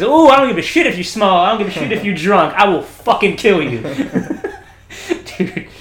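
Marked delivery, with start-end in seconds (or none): 0.0-3.8 loud, raised, hammed-up rant; imitated shouting intimidation; acted angry threat. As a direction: build a tough guy's threat, breaking into a laugh at the end. Acting out the sailor's threat.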